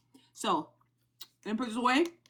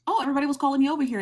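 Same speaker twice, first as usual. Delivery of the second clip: imitating a friend; 7 semitones higher, 6 dB louder, much faster than usual. Imitating K-Dub's quote.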